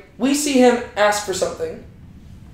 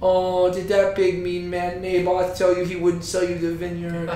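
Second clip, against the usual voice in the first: mildly coddling mother voice; lightly baby a sulking husband; a hint of mock motherly sympathy; 4 dB quieter than usual. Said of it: "this, like, nice little motherly figure".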